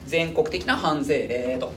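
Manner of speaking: 全国的な藩税令 spelled out slowly for note-taking; slow dictation. Shown as a demonstration. Teacher dictating a heading for students to write, slowly. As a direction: say 全国的な藩税令 slowly so they can copy it. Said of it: "書いとけ".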